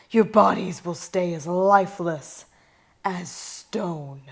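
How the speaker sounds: a chilled god passing sentence; relaxed god voice. Acted. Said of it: "American accent, oddly, for a god".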